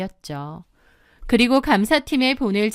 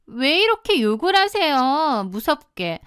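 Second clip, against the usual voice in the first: mocking, needling; 5 semitones higher than usual. Mistress goading the cursing wife, slyly mocking. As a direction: feign fright to wind her up. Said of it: "실실 저를 약올리더라고요".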